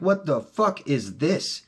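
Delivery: a replayed freaked-out what the fuck; retold panic. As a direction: act out panicked confusion at the door. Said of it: "I'm like".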